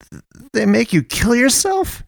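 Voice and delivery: very high-pitched, stuttering question; tearful horror. A narrator's reading. Watery-eyed man asking about the killers, tearful horror. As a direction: stammer it high, on the edge of tears.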